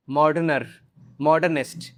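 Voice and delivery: मॉडर्नर and मॉडर्निस्ट as mistakes; wrong forms. Shown as a demonstration. Teacher showing forms not to use.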